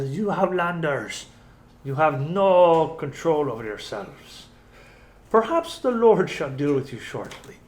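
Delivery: lightly Scottish village elder scolding outsiders; Scottish accent. Acted. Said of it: "Uh, Scottish".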